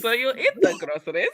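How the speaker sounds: laughing. Retold or imitated.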